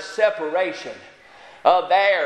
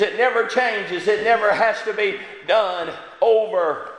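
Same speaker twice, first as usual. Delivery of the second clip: usual speaking voice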